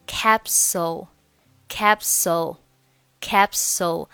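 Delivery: slow "capsule", ending on a dark l; dark final l. Shown as a demonstration. Teacher drilling the final l, slow "capsule" with dark l. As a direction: end "capsule" with a hollow-tongue l, close to "oh". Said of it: "它末尾呢是一个凹舌音".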